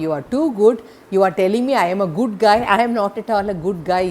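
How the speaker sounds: put-on a young lad blurting it out in a hurry; boy gushing to the grateful lady, fast and loud; eager boy. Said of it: "Then he will say".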